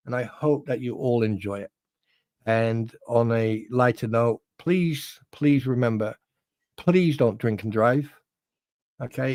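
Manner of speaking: measured, earnest public-service message; public announcement. Acted. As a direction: deliver a sincere safety announcement. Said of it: "This was a public announcement".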